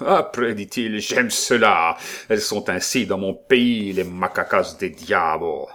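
loud, leering brute of a nobleman; brutish duke. Acted. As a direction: roar it like a lusty brute. Lustful brute duke voiced.

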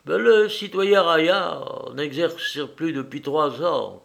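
a hint of an uneasy maid explaining; troubled servant.

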